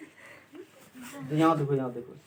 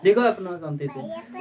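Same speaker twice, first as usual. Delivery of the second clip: देखो अपना शांति से said slowly; slow firm teacher; slow calming instruction; slower than usual. Real, not acted. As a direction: settle the pupil, slowly. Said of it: "तुम वही सब देखता है".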